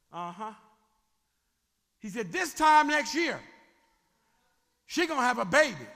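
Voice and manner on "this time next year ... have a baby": booming proclamation. Acted. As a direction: proclaim it to the tent. God announces the promise.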